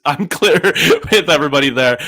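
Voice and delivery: laughing. Real, not acted. Laughing at own salary cap confusion.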